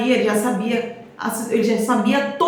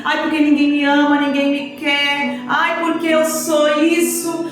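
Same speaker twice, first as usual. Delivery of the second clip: whiny self-pity; 3 semitones higher than usual. Retold or imitated. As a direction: imitate a self-pitying man moaning that nobody loves him. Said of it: "com o vitimismo, com o coitadinho".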